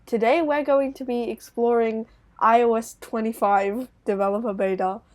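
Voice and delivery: a hint of a British presenter accent, lightly done. Shown as a demonstration. YouTuber shows his video voice to a friend, lightly British accent. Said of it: "I try to sound a bit more British".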